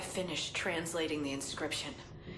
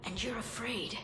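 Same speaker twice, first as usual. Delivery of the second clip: taunting whisper; 5 dB quieter than usual. Acted. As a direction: lean in and threaten softly. Prisoner taunts the doctor.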